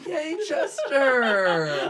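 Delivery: loud, high, very drawn-out cheer; happy cheer for Chester. Real, not acted. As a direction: celebrate the story's end. Cheering end of story.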